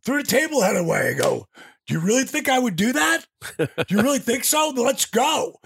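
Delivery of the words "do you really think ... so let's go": high, quick retold comeback; indignant challenge. Wrestler to his accusers in locker room, indignant challenge. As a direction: throw it back at them, ready to fight. Acted backstage quarrel.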